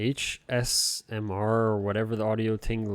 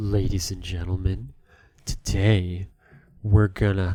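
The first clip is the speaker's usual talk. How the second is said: deliberately bad ASMR voice, much lower pitch; 2 semitones lower, 7 dB louder than usual. Speaker demonstrates their bit called Awful ASMR; deliberately bad ASMR voice. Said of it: "I do A S M R, but I do it really bad".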